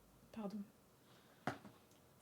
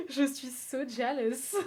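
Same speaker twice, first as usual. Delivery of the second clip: laughing mock jealousy; 3 dB louder, much slower than usual. Mock jealous wail after laugh.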